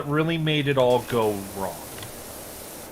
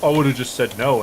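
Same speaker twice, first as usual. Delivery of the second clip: 1 mocking smug quote; 5 dB louder than usual. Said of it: "what people on the social medias like to say".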